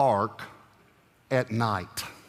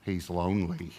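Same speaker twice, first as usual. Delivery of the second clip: mock solemn whale expert; 7 semitones lower, 7 dB quieter than usual. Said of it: "here's what the guy said".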